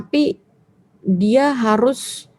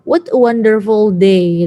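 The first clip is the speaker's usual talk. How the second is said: slow, drawn-out exclamation; 4 dB louder, slower than usual. Shown as a demonstration. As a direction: exclaim it slowly as a grammar example. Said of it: "Itu kan berarti expression". (seruan kagum yang dipanjangkan)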